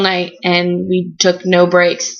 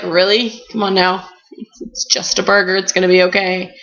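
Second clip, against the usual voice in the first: dismissive sass. Retold or imitated. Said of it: "He was so like".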